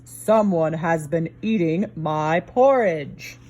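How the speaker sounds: a hint of a slow, low papa bear; lightly voiced big bear, slow; papa bear grumbling slowly, lightly voiced; big rough Papa Bear voice. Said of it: "in his big rough voice".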